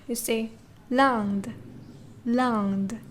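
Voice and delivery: teacher modelling Land for students; correct French pronunciation. Shown as a demonstration. Teacher to class, modelling the word slowly. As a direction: Land with a nasal vowel, said slowly. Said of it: "Not Lind, not Linde".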